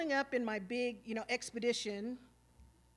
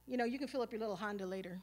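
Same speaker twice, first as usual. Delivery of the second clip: disrespectful; faster than usual. Retold or imitated. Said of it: "I was being very disrespectful to her".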